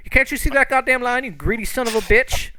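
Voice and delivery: high, loud outraged bawling; acted angry shouting; shouting at someone. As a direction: holler furiously across the room in character. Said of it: "I hear him shouting at the guy".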